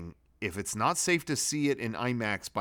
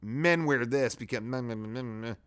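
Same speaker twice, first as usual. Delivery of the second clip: mocking babble. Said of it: "or, like".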